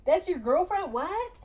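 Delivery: bewildered and climbing; shocked family questions. Retold or imitated. Family gasping at her confession, shocked and confused. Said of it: "And so she's like".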